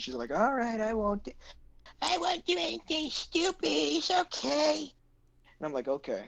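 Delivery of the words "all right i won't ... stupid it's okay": put-on very high, slow, rough old-smoker rasp. Retelling the sister's reply while she was on her phone, crappy Eric Cartman voice. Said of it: "sound like a seventy-year-old smoker".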